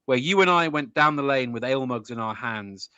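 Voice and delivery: rhythmic ballad verse by heart; poem recital. Acted. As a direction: recite with a swinging iambic beat.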